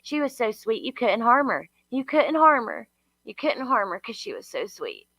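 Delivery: lightly mimicked mother, repeating herself; a mild mock of the mother repeating she was so sweet. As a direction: parrot her words back with scorn. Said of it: "She said it, like, three times".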